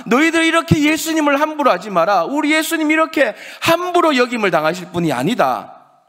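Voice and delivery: high, impassioned shouted rebuke; crying out. Acted. Woman defending Jesus before everyone present, crying out. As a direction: shout a fierce defence to a whole crowd. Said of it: "사람들 향해서 외치는 겁니다".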